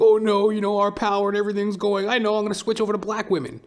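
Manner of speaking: high whiny mock crybaby voice, rushed at the end; whiny white man. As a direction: whimper it like a spoiled crybaby losing his power. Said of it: "they're crying babies".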